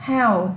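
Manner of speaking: "How" with its H sounded; pronounced H. Shown as a demonstration. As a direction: keep the H at the start of "How". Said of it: "chữ hờ còn ha".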